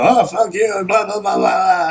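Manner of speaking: high, loud mocking blah-blah; mock angry rant. Mimics ranting hosts on show.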